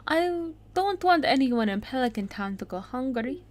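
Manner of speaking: put-on Italian-accented chef, lilting upward. Chef offering food to the hungry, Italian accent. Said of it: "I make chefs with an Italian accent".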